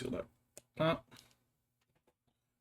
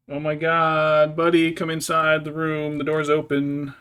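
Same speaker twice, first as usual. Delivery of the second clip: louder, higher, slow call to the cat in the hall; drawn-out, raised call to a pet; 4 semitones higher, 8 dB louder, slower than usual. Real, not acted. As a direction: coax the cat back into the room. Calling cat in from hallway.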